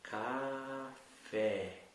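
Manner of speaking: "Café" drawn out as two separate sounds, ca... fé; slow, syllable by syllable. Shown as a demonstration. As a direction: say "Café" slowly, stretching each syllable. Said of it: "Fecha o olho e fala devagar". ("Café" bem devagar, separando ca... fé)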